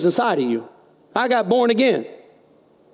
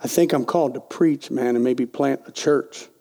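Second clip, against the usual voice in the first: softer, with a nervous laugh; sheepish laughing repeat; 8 semitones lower, 4 dB quieter than usual. Retold or imitated. Repeating to his wife a third time, sheepishly laughing. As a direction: mumble it again through a laugh.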